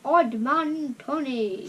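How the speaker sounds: amused laugh. Real, not acted. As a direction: chuckle the name out. Laughing at sticker name.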